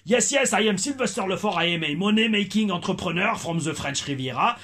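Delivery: put-on English with a light, toned-down French accent; Sylvester Lefort, toned-down French accent. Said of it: "ralenti l'accent français que j'avais en tant que Sylvester Lefort". (anglais avec un léger accent français atténué)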